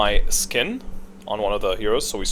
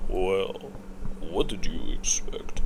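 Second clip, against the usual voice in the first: whispered aside; 4 semitones lower, 7 dB quieter, slower than usual. Real, not acted. Wry aside about Zeus upgrade.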